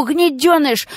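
гнедёныш shouted in a frantic rasp; hysterical yell. Acted. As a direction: spit out гнедёныш as a scream. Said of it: "истерично заблажил".

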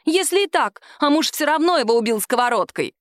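high insistent voice; shrill defiance. A narrator's reading. Woman insists to the captain that her husband killed him. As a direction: keep pushing.

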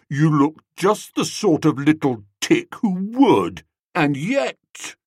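lightly voiced sneering drunk toff; a hint of a tipsy prize-giver mocking the boy; Gussie, tipsy toff. Prize-giver Gussie sneers at a schoolboy, lightly drunk-toff voice.

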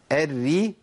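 "الري" with a thin, unrounded doubled ra; both ra's light. Shown as a demonstration. Teacher models the rule, thin light ra. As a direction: keep the whole of "الري" light, like "erri". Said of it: "بترقق الرائين".

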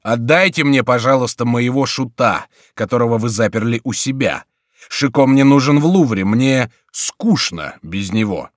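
loud, measured request, slowing at the end; calm, commanding. A narrator's reading. King demanding his jester back from prior, calm and commanding. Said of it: "спокойный и повелительный голос".

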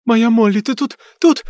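anxious, rising high pleas; a mother frantically calling her lost girl; worried. A narrator's reading. Worried mother calling her dead daughter. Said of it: "заволновалась миссис Дженкинс".

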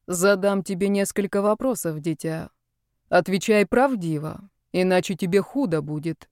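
hollow, soulless statue voice; stone statue voice. Acted. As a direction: speak like a lifeless stone statue. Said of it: "произнёс Вольга голосом статуи, отсутствующим, бездушным".

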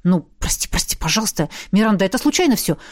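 lightly voiced lover begging forgiveness; fervent mumble. A narrator's reading. Jav to Miranda, a hint of hurried pleading. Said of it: "пылко забормотал".

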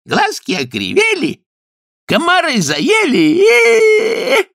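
high, slow mocking wail; teasing kikimoras. A narrator's reading. Kikimoras mock Kuzka's complaints, high drawn-out wail. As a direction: drag it out in a shrill mocking whine.

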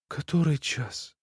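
weakly complaining, drawn out. Acted. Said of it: "так же, точно жалуясь".

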